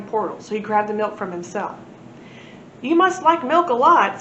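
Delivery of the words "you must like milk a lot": globby aliens. A narrator's reading. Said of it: "said the globby aliens".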